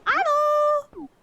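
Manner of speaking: high, loud sing-song hello; calling out. Real, not acted. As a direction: call it out across the room. Calling out again.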